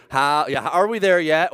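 put-on high whining kid voice; whiny kid. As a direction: whine like a bored child. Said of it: "hear these three words".

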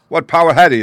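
loud, high-pitched demand; urgent question. Acted. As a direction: press urgently for an answer. Urgent question about the villain.

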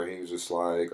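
normal talking voice

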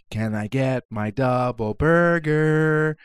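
slow, drawn-out whiny ask; whiny kid brother. Retold or imitated. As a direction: nag like an annoying little brother. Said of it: "he's like".

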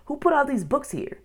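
high-pitched, puzzled question; baffled questioning. A narrator's reading. Boy asks who filled the treehouse, baffled high question. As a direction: press for an answer in wonder.

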